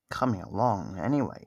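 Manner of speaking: ordinary talk, nothing marked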